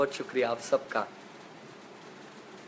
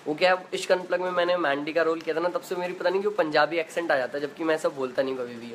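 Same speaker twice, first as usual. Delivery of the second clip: ordinary delivery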